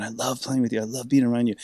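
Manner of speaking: put-on half-begging, half-scolding a young player; George's pleading voice. Imitating George pleading with the young bassist.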